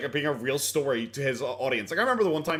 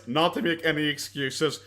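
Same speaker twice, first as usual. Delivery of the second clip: slow mocking quote; slower than usual. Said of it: "the cut to that guy's face".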